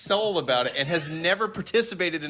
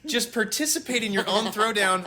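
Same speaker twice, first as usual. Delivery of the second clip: cheeky power move; 6 semitones higher than usual. Retold or imitated. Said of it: "I was like".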